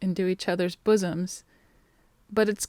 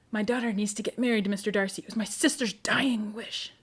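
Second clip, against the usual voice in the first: hushed; 4 dB quieter than usual. Retold or imitated. Quoting Lady Catherine's plea.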